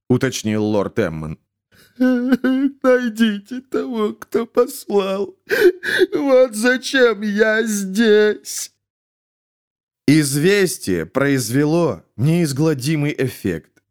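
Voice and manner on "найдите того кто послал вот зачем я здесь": high, very slow, breaking into crying; sobbing plea. A narrator's reading. Weeping jester begs the lords to find the sender. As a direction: beg through sobs. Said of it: "разрыдался".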